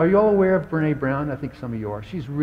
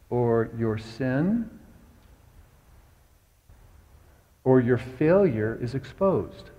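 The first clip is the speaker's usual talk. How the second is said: slow preaching emphasis; 2 semitones lower, slower than usual. Acted.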